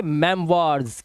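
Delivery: "मेमवार्स" as mem-WAARS; careful model of "मेमवार्स", French-style wa for oi. Shown as a demonstration. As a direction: say "मेमवार्स" with a clear waa in the second syllable. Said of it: "वा हो गई".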